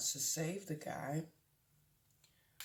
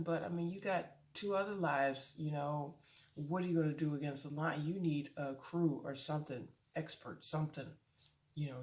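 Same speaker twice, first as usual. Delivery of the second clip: annoyed. Retold or imitated. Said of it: "I was a little bit annoyed".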